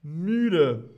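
sleepy, drawn-out müde; tired. Shown as a demonstration. Teacher acts tired after a long party. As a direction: sigh the word out wearily. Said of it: "Als nächstes haben wir müde".

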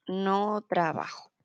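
"No trabajo" said slowly, stressing "ba"; slow model repeat. Shown as a demonstration. Teacher repeats "No trabajo" slowly for students to copy. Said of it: "without the tilde".

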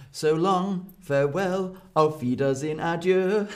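dramatic farewells. Shown as a demonstration. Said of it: "is quite dramatic".

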